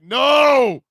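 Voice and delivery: put-on little kid refusing, high scared pleading; childish panic. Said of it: "I was like".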